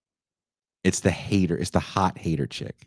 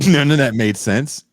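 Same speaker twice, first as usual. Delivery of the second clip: laughing; 6 semitones higher, 7 dB louder than usual. Real, not acted. Laughing repeat of complaint.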